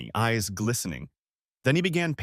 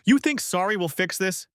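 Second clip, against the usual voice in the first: much higher and louder, an angry shout; 9 semitones higher, 4 dB louder than usual. Acted. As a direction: throw her apology back in her face. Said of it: "Jason shouted".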